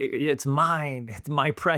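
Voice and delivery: slow, drawn-out creature voice. Retelling how a movie father turned evil over his prize: Gollum voice. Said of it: "he turned into Gollum, he was like".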